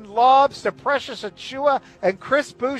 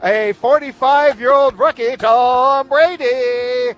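arena announcer; 4 dB louder, slower than usual. Acted. Intro calling Brady into the arena.

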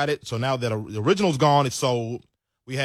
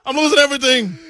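mock despair; 9 semitones higher, 7 dB louder than usual. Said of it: "I'm like".

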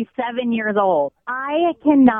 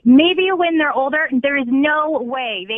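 furious; 4 semitones higher than usual. Real, not acted. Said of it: "I was furious".

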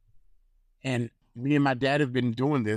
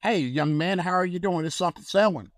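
cheerful greeting; 6 semitones higher than usual. Retold or imitated. Cheering up a dying man.

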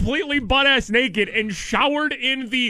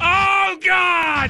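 horror trailer voice; 7 semitones higher than usual. Pretend. Mock dramatic outcry.

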